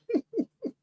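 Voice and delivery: short high laugh; high-pitched laugh. Real, not acted. Host after quoting an online critic, high laugh. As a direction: let out a high little laugh.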